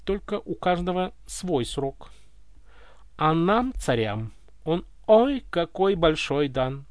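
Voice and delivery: slow and calm; calmer. Acted. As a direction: settle down, speak calmly. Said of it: "продолжил более спокойно царь".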